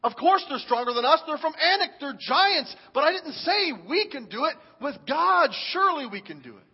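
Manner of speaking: mock exasperation, loud on duh; exasperated Caleb. Caleb answers the doubting spies with exasperation. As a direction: roll your eyes and push back. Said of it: "I believe that Caleb was thinking".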